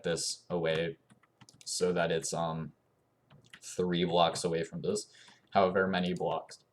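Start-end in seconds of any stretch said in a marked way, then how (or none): 5.5-6.6 speaking with hiccups; words broken by a hiccup. Real, not acted. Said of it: "I have the hiccups".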